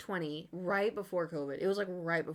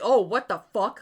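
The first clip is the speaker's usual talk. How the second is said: loud, laughing exclamation; laughing shout; 2 semitones higher, 11 dB louder than usual. Real, not acted. Picturing swearing at a band, loud laughing shout. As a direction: blurt it out through laughter.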